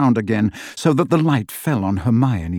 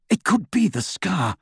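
eager; 8 semitones higher than usual. Acted. Lucius voiced high and eager.

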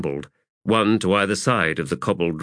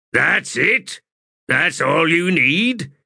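incredulous; 10 semitones higher, 4 dB louder, slower than usual. Acted. Corporal doubts the tattoo.

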